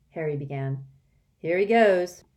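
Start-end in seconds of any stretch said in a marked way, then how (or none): 1.4-2.2 exasperated. A narrator's reading. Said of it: "rolling his eyes".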